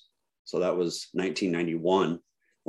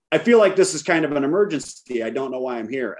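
retold panicked protest, higher pitched; freaking out; 5 semitones higher than usual. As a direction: plead your case, mildly frantic. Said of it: "I'm freaking out".

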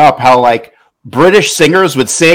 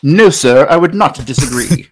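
mock British politeness; playful attempt at a British accent; put-on British accent. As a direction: answer in an imitation British accent. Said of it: "did he do a good one, Freddie?".

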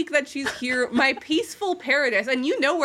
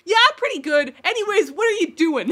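nervous eager quote; 7 semitones higher, 6 dB louder than usual. Retold or imitated. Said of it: "I was like".

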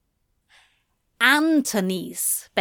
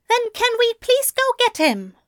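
higher, louder irritated snap; snapped; 4 dB louder than usual. A narrator's reading. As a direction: snap at him, worried and cross. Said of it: "Aziraphale snapped".

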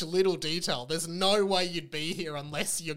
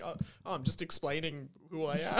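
mock defensive; 6 dB quieter than usual. Mocking a character's quote.

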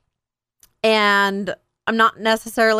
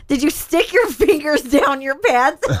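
laughing; 4 semitones higher than usual. Real, not acted. Laughing while asking.

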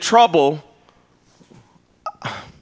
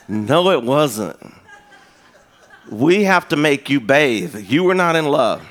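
mom voice. Retold or imitated. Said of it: "She goes".

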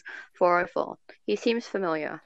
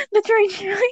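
real laughter through a higher-pitched repeat; laughing; 12 semitones higher, 4 dB louder than usual. Real, not acted. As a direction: crack up while repeating the misread. Cracking up at a misread word.

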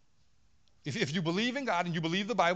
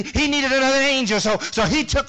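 loud mocking cliché; 6 semitones higher, 10 dB louder than usual.

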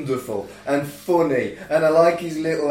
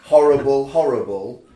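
louder, punched disgust; emphatic horrible; 3 semitones lower, 7 dB louder than usual. Real, not acted. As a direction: spit out the word horrible.

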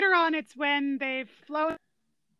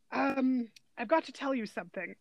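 imitating sheepish confession; 2 semitones lower, 8 dB quieter than usual. Dad owning up to his son, imitated sheepish confession. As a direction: drop the volume as if owning up. Retelling dad's awkward confession in film.

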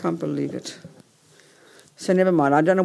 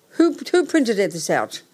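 higher pitched indignant question; exasperated at the wrong printout; annoyed demand; 3 semitones higher than usual. Real, not acted. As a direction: demand to know who did it. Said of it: "I'm getting angrier by the minute".

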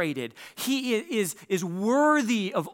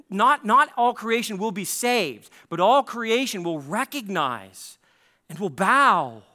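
slow, louder, stress on NOT; emphatic preaching; 2 semitones higher, 4 dB louder, slower than usual. Real, not acted. Preacher pressing the point home to the church, emphatic and slow. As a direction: land each word on the congregation, slowly.

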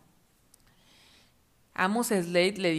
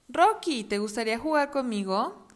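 puppy voice; 3 semitones higher, 3 dB louder than usual. Acted. Voz del cachorro.

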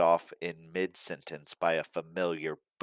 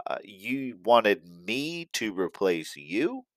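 slow, halting, stunned question; stammering; 3 semitones higher, 3 dB quieter, slower than usual. Acted. Stunned Xylo asking Santa about replacing him, slow stammer. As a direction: stumble through it, caught off guard. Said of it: "Xylo stammered his response".

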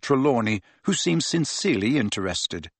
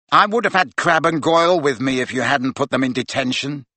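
raised excited voice; 3 dB louder than usual. Acted. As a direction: voice rising, agitated. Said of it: "Malfoy's voice had risen excitedly".

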